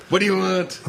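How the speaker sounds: a laughing send-up of an angry card; laughing mock snarl. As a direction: laugh through a pretend angry demand.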